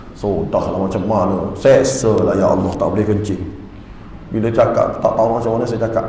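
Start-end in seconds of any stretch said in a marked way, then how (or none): 0.1-3.4 re-enacted suffering. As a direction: lament helplessly, pitched down. Merayu kerana terseksa tak dapat kencing. (meniru keluhan terseksa, suara rendah)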